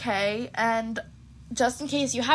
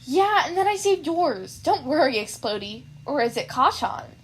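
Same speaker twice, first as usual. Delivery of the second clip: teasing; 3 semitones higher than usual. Acted. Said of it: "rolled her eyes and grinned".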